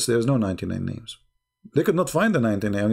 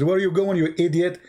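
higher-pitched mock scolding; mock scream; 5 semitones higher than usual. Wife calling back her husband as he leaves, mock scream. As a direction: imitate a wife yelling, without real volume. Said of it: "She screamed. She said".

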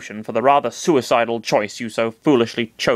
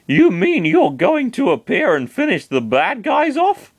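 put-on higher, slow, hopeful young man; Chris's voice; 10 semitones higher, 3 dB louder than usual. Chris asks Master Hand to finish off the villains, hopeful. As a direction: ask it slowly, a bit higher, hoping.

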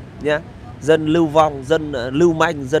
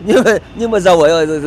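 louder, a touch higher, breaking into laughter; laughing; 4 semitones higher, 5 dB louder than usual. Real, not acted. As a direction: laugh through the words. Laughs at rich emigrants. (vừa cười vừa nói, to hơn)

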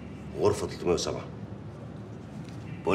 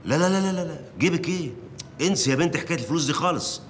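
rapid string of no's, much higher; alarmed protest; 9 semitones higher than usual. Acted. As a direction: cut her off in alarmed, high-pitched protest. Editor panics about the money. (اعتراض مذعور بصوت عالي النبرة)

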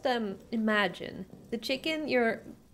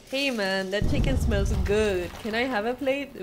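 casual neighbor; 4 dB louder than usual. Pretend. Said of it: "the neighbor comes and they say".

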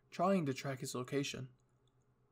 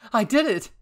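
high, loud burst of triumph; elated, raised-pitch yell; triumphant cry; 9 semitones higher, 16 dB louder than usual. Acted. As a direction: shout it out in sheer excitement. Triumph after winning the fight.

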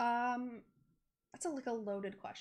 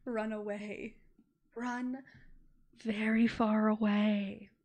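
slow, louder dramatic warning; hammed-up cry to flee, drawn out; mock loud warning; 9 dB louder, much slower than usual. Warning sim about gravestones.

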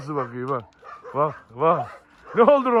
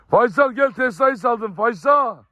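calling a dog; 6 semitones higher, slower than usual. Real, not acted. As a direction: shout the dog over, then draw it out slowly.

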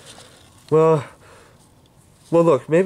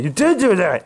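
angry accusation; 5 semitones higher than usual. Acted. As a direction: throw the accusation back hard. Angry accusation after calm line.

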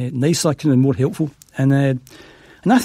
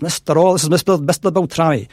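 booming voice; 2 semitones higher, 3 dB louder than usual. Retold or imitated. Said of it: "this big booming voice comes on".

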